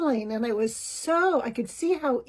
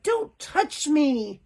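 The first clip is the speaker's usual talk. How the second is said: slow, raised protest, a touch higher; louder, upset; 3 semitones higher, much slower than usual. Retold or imitated. Child refusing his mother's touch, slow raised protest. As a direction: push the words out to stop her. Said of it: "his voice grew in volume".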